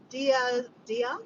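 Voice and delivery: "Dia" repeated, ending on an open A; Dia without S. Shown as a demonstration. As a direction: try "Dia" twice, dropping the final S. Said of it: "Not Diaz".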